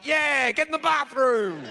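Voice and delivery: put-on a drunk guy cheering the push along; lightly mocking drunk chime-in; drunk joining in. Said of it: "I'm so wasted".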